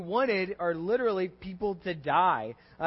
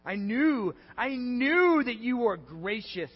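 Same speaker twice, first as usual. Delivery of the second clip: hammed-up bitter sneer; intense and derogatory; 3 semitones higher, 4 dB louder than usual. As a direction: spit the praise back like an insult. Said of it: "really intense and, like, derogatory way".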